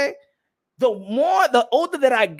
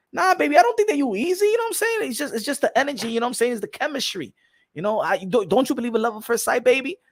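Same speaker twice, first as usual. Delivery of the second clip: smooth talker. Acted. Guy sweet-talking girl.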